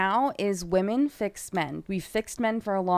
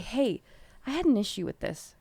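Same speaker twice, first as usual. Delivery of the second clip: calm; 6 dB quieter than usual. Pretend. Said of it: "Just calmly".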